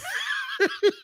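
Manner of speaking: high squealing laugh; real laugh, high and breathy; burst of laughter. Real, not acted. Laughing at retold fight.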